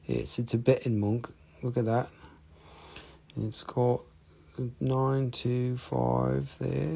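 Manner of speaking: put-on soft, understated English accent; quietly soothing product patter in English tones; English ASMR voice. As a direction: keep it low-key and English.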